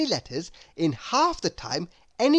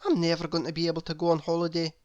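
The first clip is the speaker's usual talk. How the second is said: glum muttering; much faster than usual. Acted. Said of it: "he sighed to himself".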